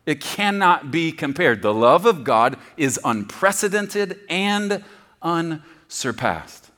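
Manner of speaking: loud, high, emphatic no no no; God insisting. Acted. Preacher voicing God correcting the congregation, loud and emphatic. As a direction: drive it home, slowing on the last line. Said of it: "And God says".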